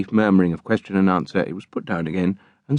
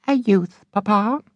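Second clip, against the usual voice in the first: put-on high, eager young woman's voice; eager daughter. A narrator's reading. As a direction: ask papa with sharp curiosity. Charity asks her father.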